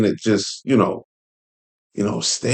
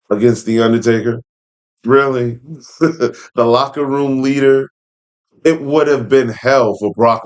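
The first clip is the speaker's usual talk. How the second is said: normal talking voice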